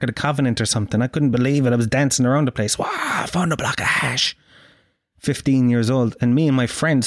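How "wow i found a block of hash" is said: high-pitched triumphant wow; excited exclamation. Retold or imitated. Acting out his excited celebration.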